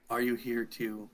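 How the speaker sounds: put-on lightly rasped old tiefling; a hint of a raspy old man. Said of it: "who says in his raspy voice".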